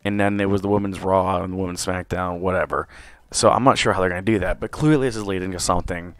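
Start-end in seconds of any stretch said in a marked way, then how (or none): 3.3-6.1 losing my voice; slightly hoarse, tired voice. Real, not acted. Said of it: "I'm losing my voice here a little bit".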